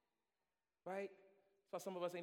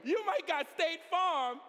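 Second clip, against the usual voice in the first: loud, high, rising preacher's cadence; full-force preaching; 12 semitones higher, 13 dB louder, slower than usual. Acted. Preacher calling to his congregation, full force.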